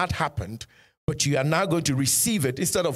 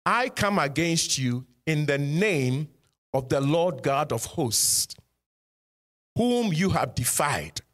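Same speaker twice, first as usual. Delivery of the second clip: David defying Goliath. Retold or imitated. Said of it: "He said".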